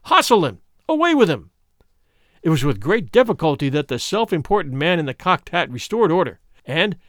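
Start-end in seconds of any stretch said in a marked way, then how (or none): 0.0-1.5 loud, much higher accusing shouts; crowd shouting. A narrator's reading. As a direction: bellow it like an angry mob. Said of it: "a general shout burst from the bystanders".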